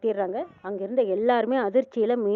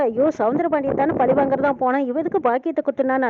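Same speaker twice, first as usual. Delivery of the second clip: louder, half-acted wail of shock; retold wailing cry; 3 semitones higher, 4 dB louder than usual. Vaikundam wails over the stabbing, a louder retold cry. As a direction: cry out the way the mother did, only partly voiced. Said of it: "இங்க வைகுண்டம் அலறாங்க".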